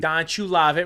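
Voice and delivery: lightly hammed-up mock Spanish accent; fake Spanish accent. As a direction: play it as a Spanish-ish catchphrase. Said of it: "fake Spanish accent".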